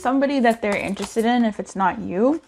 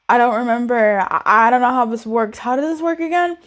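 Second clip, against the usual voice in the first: freaking out; 4 dB louder than usual. Acted. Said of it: "I'm freaking out".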